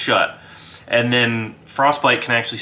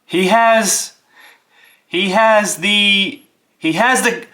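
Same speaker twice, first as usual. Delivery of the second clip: higher, louder halting Frostbite voice; Frostbite speaking; 10 semitones higher, 4 dB louder, slower than usual. Acted. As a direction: stumbles over telling the door. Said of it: "he says".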